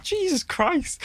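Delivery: squeaked-out amazement; amazed high exclamation; high-pitched awe. Retold or imitated. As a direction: say it stunned, voice way up.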